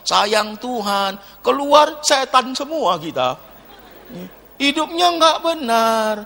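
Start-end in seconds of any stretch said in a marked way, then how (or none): 0.1-1.2 mock pious. Mocking pious worship.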